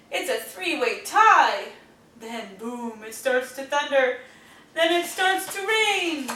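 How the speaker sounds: put-on lively storybook reading to kids; reading to children. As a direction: read it like a bedtime picture book. Reading picture book aloud.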